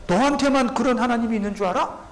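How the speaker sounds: mock arrogant retort; defiant Pharaoh. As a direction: taunt Moses like a haughty Pharaoh. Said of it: "그러면서 거침없이 말합니다".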